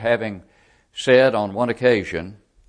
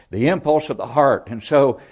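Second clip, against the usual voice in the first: rising preaching; 4 semitones higher, 6 dB louder than usual. Real, not acted. Preacher building to climax.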